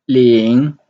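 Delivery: Ling in Mandarin second tone, dipping then rising. Shown as a demonstration. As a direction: let Ling climb at the end like a question. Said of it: "the second tone".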